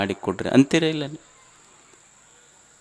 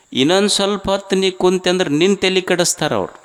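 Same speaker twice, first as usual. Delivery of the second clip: higher and fast, ಇನ್ನೊಂದು hit hard; fast emphatic warning; 4 semitones higher, faster than usual. Shown as a demonstration. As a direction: rush the warning out, pitched up. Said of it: "line repeated, first faster".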